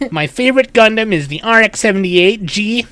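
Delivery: nerdy voice. Pretend. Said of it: "comic cartoon nerdy voice".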